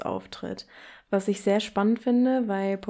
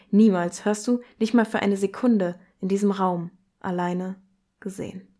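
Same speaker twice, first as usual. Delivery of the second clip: poetry reading. Acted. Host reading the fifth text aloud, intense and measured. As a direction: read the poem, letting it swell and sink.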